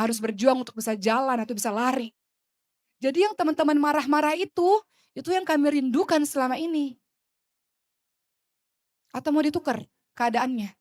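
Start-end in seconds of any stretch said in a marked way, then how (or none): 3.0-10.7 impassioned. Real, not acted. Emotional appeal.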